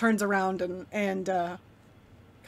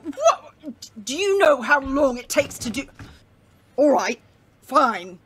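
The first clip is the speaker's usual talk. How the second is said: annoyed; 3 semitones higher, 5 dB louder than usual. Acted. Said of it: "he kinda looks at you angrily".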